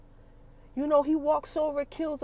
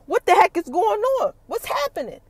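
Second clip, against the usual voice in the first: higher, bewildered searching voice; confused panic; 6 semitones higher, 6 dB louder than usual. Retold or imitated. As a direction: act lost and alarmed, asking the room. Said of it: "he looking all around like".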